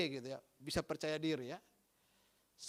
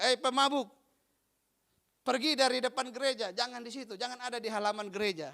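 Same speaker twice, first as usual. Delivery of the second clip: scolding pastor; 4 semitones higher than usual. Acted. Pastor scolding the drunk on the church steps, raised voice. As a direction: shoo the drunk away from the church door.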